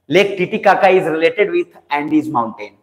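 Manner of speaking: very slow, measured note-giving; slow dictation. Real, not acted. Teacher asking students to write one line, slow dictation. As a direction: dictate word by word with gaps. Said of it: "मैं धीरे धीरे बोल रहा हूँ".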